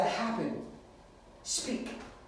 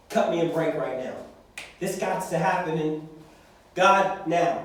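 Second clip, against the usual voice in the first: aggressive prayer. Pretend. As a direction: push God hard, insistent. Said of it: "we can get aggressive sometimes".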